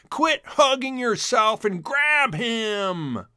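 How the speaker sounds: slow, high, loud barking command; yelled order. A narrator's reading. Mink brother yells at his brother, loud and high. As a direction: shout at your clumsy brother. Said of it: "one yelled to the one".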